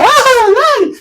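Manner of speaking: high-pitched mock giggle of a cartoon sun; imitation of the Teletubbies sun cracking up; imitated hearty laugh. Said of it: "toteado de la risa. Y eso era".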